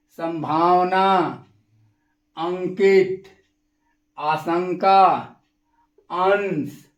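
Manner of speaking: नींद, ठंडी, संभावना with a firm nasal consonant; anusvar nasal. Shown as a demonstration. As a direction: press the nasal through the nose in पंडित and शंकर. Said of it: "वायु केवल नाक से निकलती है".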